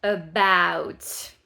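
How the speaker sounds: "About" very loud, falling; about for Virginie. Shown as a demonstration. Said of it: "Virginie, si tu passes par là".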